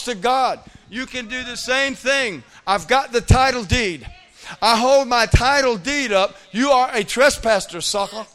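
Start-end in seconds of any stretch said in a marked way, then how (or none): 2.7-6.3 loud, defiant claim to the house; 1 loud declaration. Pretend. Declaring ownership to the enemy. 6.5-8.3 1 loud rebuke. Pretend. Preacher addressing the enemy.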